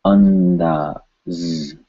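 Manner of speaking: "Andaz" drawn out, tongue on the front teeth for nd; dental N. Shown as a demonstration. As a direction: stretch "Andaz" slowly with the n against the back of the teeth. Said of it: "tongue touching the back of the front teeth".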